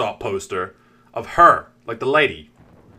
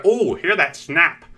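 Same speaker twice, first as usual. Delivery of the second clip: higher, drawn-out oddball delight; eccentric nerd; 5 semitones higher, 4 dB louder, much slower than usual. Acted. Scientist cracking the chocolate open, eccentric delighted voice. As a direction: savour it like a nerdy enthusiast. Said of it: "He was a little eccentric".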